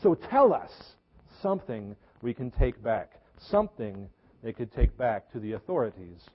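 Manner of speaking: pleading demand. Acted. Envoys pleading with John for answers.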